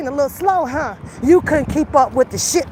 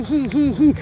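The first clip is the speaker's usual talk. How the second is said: mock giggle. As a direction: mimic someone grinning smugly. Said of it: "on Doctor Rogers smiling".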